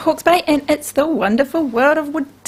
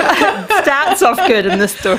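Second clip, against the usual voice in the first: laughing; slower than usual. Real, not acted. Laughing at correction.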